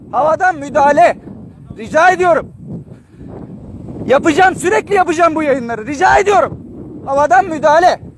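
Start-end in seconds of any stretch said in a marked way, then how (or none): 4.1-8.1 urgent shout. Real, not acted. Urgent appeal from the fire.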